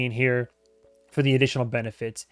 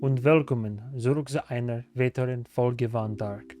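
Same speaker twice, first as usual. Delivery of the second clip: careful learner's German, a touch softer; German greeting; 3 dB quieter than usual. Shown as a demonstration. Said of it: "when I try to speak German".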